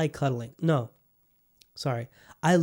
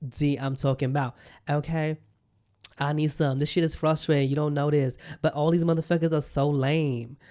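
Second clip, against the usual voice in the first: exaggerated frustrated girlfriend. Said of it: "my friends do not sound like that".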